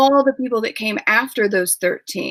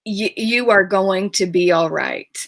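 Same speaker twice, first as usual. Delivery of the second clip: whispered reassurance. Retold or imitated. Author whispering comfort to her young heroine. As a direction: breathe it gently like a promise.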